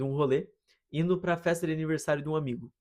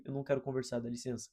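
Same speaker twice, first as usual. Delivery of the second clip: curt restrained reply; 2 semitones lower, 7 dB quieter, faster than usual. Retold or imitated. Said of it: "eu falei".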